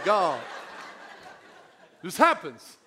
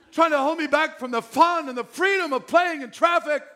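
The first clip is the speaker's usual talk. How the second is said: put-on whiny kid; 2 semitones higher, 4 dB louder than usual. Kid whining at dad.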